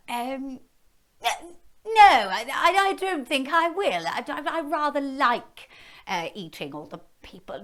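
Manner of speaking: hammed-up hungry dragon. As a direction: savour them like a snack. Dragon refusing, voiced.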